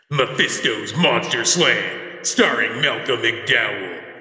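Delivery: slow, dramatic trailer announcer; movie trailer voice. Pretend. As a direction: drag out each word like a trailer. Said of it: "how's this sound for a movie?".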